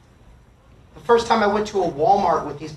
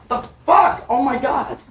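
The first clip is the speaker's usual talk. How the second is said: exasperated; 6 semitones higher than usual. Retold or imitated. Exasperated at the bee interrupting.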